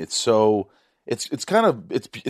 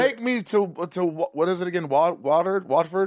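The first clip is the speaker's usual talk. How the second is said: pitched way up, pleading like a starstruck fan; mock eager visitor; 8 semitones higher than usual. Host mimicking fans begging to visit the studio, mock eager and high. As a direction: beg to be taken there, voice high and eager.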